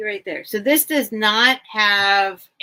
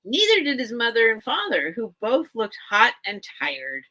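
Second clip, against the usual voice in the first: put-on reading a children's book aloud, a little raised; story narration; 3 semitones higher than usual. Bookseller reading the opening line to viewers, storytelling.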